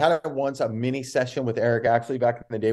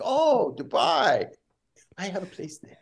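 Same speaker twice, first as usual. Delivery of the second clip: mock impressed; 9 semitones higher, slower than usual. Bobby mocking the Dubai answer, slow fake awe. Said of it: "I'm like".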